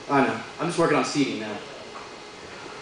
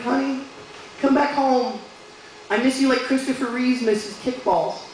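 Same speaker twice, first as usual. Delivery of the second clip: sweet-talking; 5 semitones higher than usual. Retold or imitated. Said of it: "trying to be sweet again".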